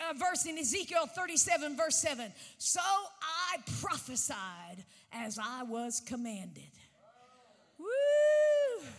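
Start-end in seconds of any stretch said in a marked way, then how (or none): 2.6-8.9 slow reverent reading then whoop. Acted.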